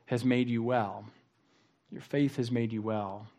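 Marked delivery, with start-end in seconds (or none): 1.9-3.3 much softer, letting the line sink in; soft reflective repeat. Acted. Preacher repeats Jesus's words to the congregation, softly. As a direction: say it again quietly, to let it land.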